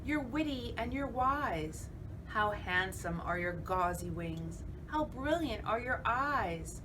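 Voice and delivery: flattering spider. Acted.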